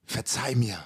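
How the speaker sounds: soft, low murmur; quiet plea. Retold or imitated. Man asking his girlfriend's forgiveness at the table, soft murmur. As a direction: breathe it out softly, asking forgiveness. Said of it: "nochmal so ganz leis gesagt".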